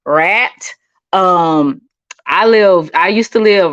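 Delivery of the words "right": "rat" said for "right", country style; country pronunciation. Shown as a demonstration. Streamer pointing out her own accent, country "rat". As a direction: give "rat" its country flat a, no glide. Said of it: "That's my country".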